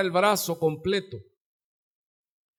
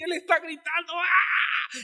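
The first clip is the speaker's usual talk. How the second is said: monkey scream; 10 semitones higher than usual. Acted.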